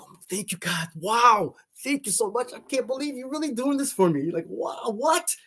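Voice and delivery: reliving the shock of the shooting star, voice lifted high; retold awestruck thanks. I was like.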